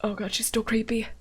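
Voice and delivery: unvoiced whispered aside. Real, not acted. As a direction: breathe it under your breath. Aside after creepy line.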